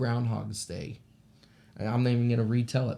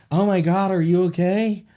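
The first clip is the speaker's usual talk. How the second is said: higher, louder retold cry of alarm; alarmed concern; 7 semitones higher, 7 dB louder than usual. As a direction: check on them in a retold fright. Retold alarm after a crash.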